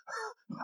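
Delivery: high, soft gasp for air; startled gasp. Acted. Preacher acting out waking from bad dream, gasping. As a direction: gasp as if jolted from sleep.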